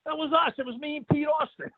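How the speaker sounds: a lightly played, high-pitched buddy confessing; Jim's reply. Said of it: "He goes".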